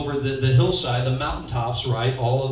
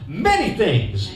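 "Many things" drawn out and louder; slow prompt; 2 semitones higher, 5 dB louder, much slower than usual. Shown as a demonstration. Pastor leading an echo, slow with a laugh. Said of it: "Everybody say".

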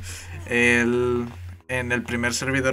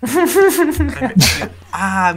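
pained cry; 12 semitones higher, 9 dB louder, much slower than usual. Real, not acted. Hurt her ear, cries out.

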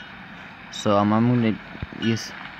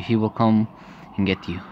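restrained threat. Acted. False mother threatens the daughter, restrained menace. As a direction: menace that drops away at the end.

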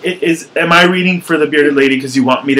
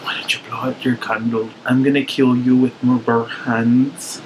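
put-on Irish accent; 2 semitones lower, 4 dB quieter than usual. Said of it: "I'm doing an Irish accent".

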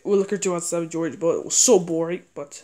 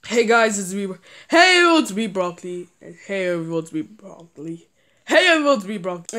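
Broccoli plush voice. Retold or imitated. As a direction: kid voicing his plush toy Broccoli for viewers. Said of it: "I'll try to do his voice".

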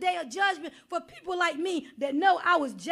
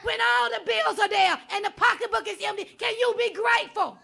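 full-force preaching; 2 semitones higher than usual. Acted. Preacher exhorting the congregation, at full force. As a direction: preach it hard and call them out.

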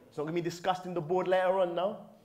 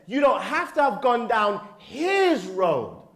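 louder, higher, driving the point home; emphatic preaching; 7 semitones higher, 8 dB louder, slower than usual. Real, not acted. Preacher reassuring the brothers with a loud, emphatic repeat. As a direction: preach it out with force. Repeats line at full force.

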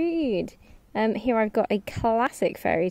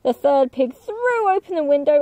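higher, excited storytelling; dramatic narration; 6 semitones higher, 6 dB louder than usual. A narrator's reading. Narrator telling the wolf blowing houses down, excited and lively. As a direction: build the suspense for the kids.

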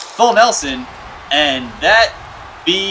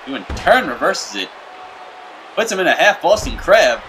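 play-by-play commentary. Acted. Fake wrestling play-by-play.

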